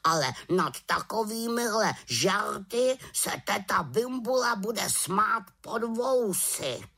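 high raven voice, slowing at the end; the raven warning the witch. A narrator's reading. (vysoký hlas havrana)

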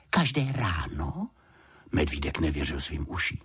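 a small bear who can't believe his luck; amazed little bear. Acted.

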